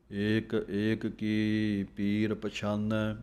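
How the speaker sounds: slow, measured chanting of the verse; slow scripture recitation. Shown as a demonstration. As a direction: recite each phrase with a steady pause.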